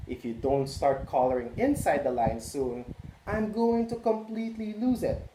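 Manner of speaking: a neat-freak crayon near the end of its patience; fussy purple crayon. Acted. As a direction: crayon scolding the boy about the lines. Purple Crayon's letter read aloud.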